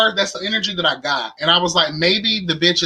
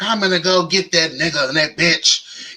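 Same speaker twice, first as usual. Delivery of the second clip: imitating Bernadine. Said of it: "wasn't our guy acting like Bernadine".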